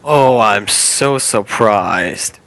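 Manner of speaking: slow, deadpan sarcasm; sarcastic. Real, not acted. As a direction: drag it out, not surprised at all. Reacting to being recorded.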